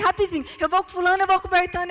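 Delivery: imitação agitada, mais aguda; colegas apressados. Acted. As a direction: disparar as falas como colegas escolhendo grupo. Encena colegas formando grupos depressa. (pressa encenada de quem já escolheu parceiro)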